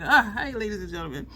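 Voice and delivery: lightly voiced showman greeting; a hint of a stage host opening his show; mock announcer hello to the crowd; imitating comedian's intro. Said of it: "he's always like".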